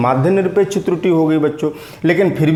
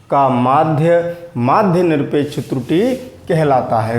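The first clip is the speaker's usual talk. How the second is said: slow dictation. Shown as a demonstration. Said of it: "परिभाषा मैंने जल्दी में बोल दी थी".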